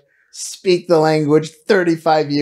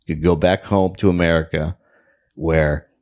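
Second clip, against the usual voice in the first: gloomy inner voice; 13 semitones lower than usual. Retold or imitated. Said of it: "you just say to yourself".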